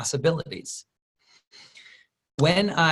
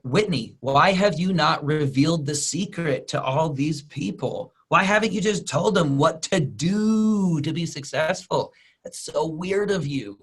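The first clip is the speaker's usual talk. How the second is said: lightly voiced whiny follower; a hint of an accusing fan; mock audience complaint; 3 semitones higher than usual. Fan whining at Whitney for hiding the secret, mildly mocking.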